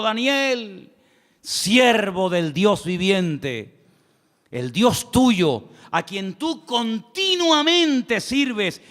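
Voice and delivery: a touch of sorrow, drawn out slowly; sad voice. Acted. King calling Daniel at the den, mildly sorrowful. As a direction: call out to Daniel mildly grieving. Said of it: "con voz triste".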